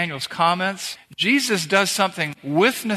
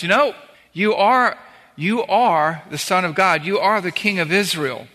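retold outburst; 2 semitones higher than usual. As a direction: blurt it out in amazement. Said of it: "this guy just explodes and goes".

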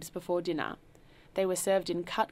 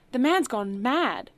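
higher, loud, slow outrage; cried out; 6 semitones higher, 8 dB louder, slower than usual. A narrator's reading. Host telling the guests his butler is mad, loud and slow. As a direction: spell it out in angry disbelief. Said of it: "cried out to his guests".

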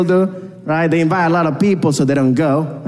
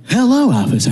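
put-on higher-pitched, overdone American accent; trying too hard to sound American; exaggerated American accent; 5 semitones higher than usual. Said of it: "I'm gonna use my American accent".

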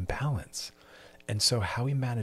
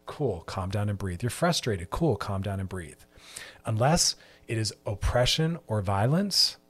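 normal talking voice

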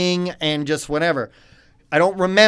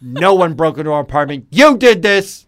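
flat accusation; 7 dB louder than usual. Retold or imitated. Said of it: "And she is like".

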